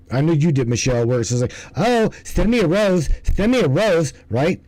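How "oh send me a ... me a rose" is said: higher, pleading mock girly ask; a hint of a wheedling streamer; mock begging girl. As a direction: lightly ham up a livestream girl begging for gifts. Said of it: "and they're like".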